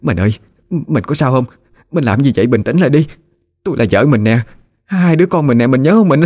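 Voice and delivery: high, alarmed pleading wife; distraught wife calling her husband back, pitch climbing; crying out. A narrator's reading. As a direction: beg him to recognise her. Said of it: "Bà Hai la lớn".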